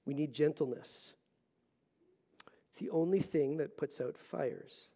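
soft hushed whisper. Real, not acted. To the congregation, a whispered closing line. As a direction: let it land in a whisper.

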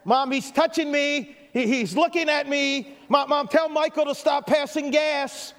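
put-on whiny kid in the back seat; whiny tattling little sibling. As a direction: nag like a bored little kid. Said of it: "by saying such things as".

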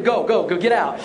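loud, mock-urgent shooing; hurried urging. Pastor hurrying people out of icy water, urgent. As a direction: rush them out, half laughing. Pastor rushing freezing baptism candidates out.

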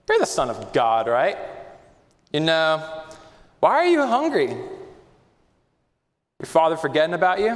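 taunting Satan. Acted. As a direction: needle him, feigned concern, sneering. Preacher voices Satan tempting Jesus.

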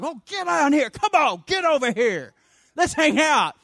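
high, loud, boisterous welcome; playfully rowdy summons; exuberant calling out. Acted. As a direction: holler them over like a delighted buddy. Jesus eagerly calling kids over.

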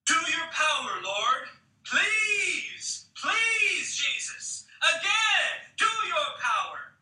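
high, loud pleading shouts; desperate shouts. Retold or imitated. Little girl begging Jesus for wind, shouting high. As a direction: beg at the top of your voice. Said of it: "desperate shouts".

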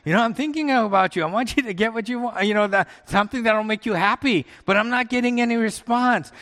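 perturbed complaint. Retold or imitated. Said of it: "'Cause I said".

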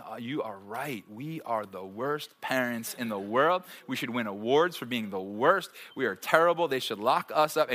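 put-on sarcastic parent conceding to a whining kid; super sarcastic. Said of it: "I usually get super sarcastic".

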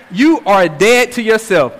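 "You" and "dead" each given firm weight; emphatic. Acted. Preacher driving Paul's point home to the church, emphatic. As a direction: lean on "You are dead", then finish the phrase. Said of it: "Paul makes the emphasis of".

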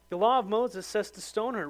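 hammed-up crowd of accusers pressing hard; accusers' demand. Preacher voicing the accusers demanding a verdict, loud and insistent.

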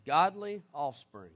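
"Godly offspring" drawn out slowly, each word weighted; slow emphatic quote. Shown as a demonstration. Preacher reading "Godly offspring" slowly to his congregation. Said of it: "repeated for emphasis".

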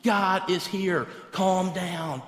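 firm, measured exasperation; frustrated dad. Acted. Dad to son for the third time, frustrated. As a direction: lay it down firmly to a child, patience running out. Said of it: "He's pretty frustrated this time".

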